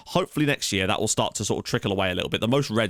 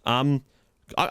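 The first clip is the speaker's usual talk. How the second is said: ordinary talk, nothing marked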